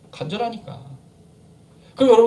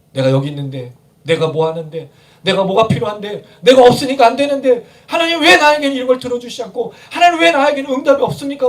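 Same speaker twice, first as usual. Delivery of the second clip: crying out; 2 semitones higher, 5 dB louder than usual. Acted. Preacher mimics demanding answers from God, crying out. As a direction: escalate a complaint to God into an acted cry. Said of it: "라고 외친 적은 있지 않습니까".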